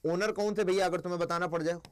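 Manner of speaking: usual speaking voice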